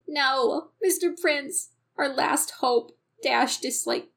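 put-on Minnesotan accent. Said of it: "why did I go Minnesotan".

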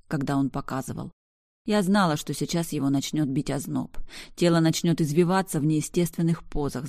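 plain reading voice

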